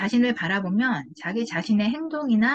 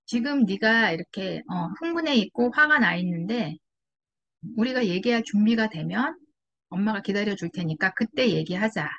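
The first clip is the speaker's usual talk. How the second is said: put-on calm talk to child. Shown as a demonstration. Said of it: "아이한테".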